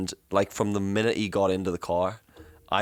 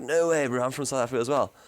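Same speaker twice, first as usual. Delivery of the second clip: higher-pitched, amazed South African voice; South African accent; 5 semitones higher than usual. Retold or imitated. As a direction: meet a countryman in full South African accent. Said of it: "to just sounding full blown South African".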